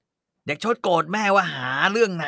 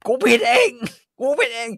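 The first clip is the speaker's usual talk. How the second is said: bitter outburst; 7 semitones higher than usual. Acted. Mother blames herself, loud.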